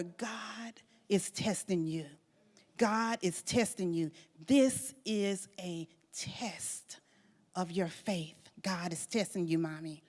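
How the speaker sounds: solemn echoed words. Retold or imitated. Mother recalling her daughter's words over and over, solemn and soft.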